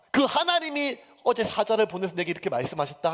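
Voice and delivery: loud, high preaching proclamation of God as creator; bold proclamation. Retold or imitated. Preacher booming what Paul should have declared to frightened sailors. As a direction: announce it over the storm, full force.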